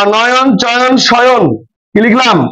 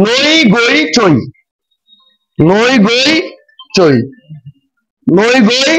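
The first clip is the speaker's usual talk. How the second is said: slow spelling; much slower than usual. Shown as a demonstration. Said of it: "teacher spells syllables".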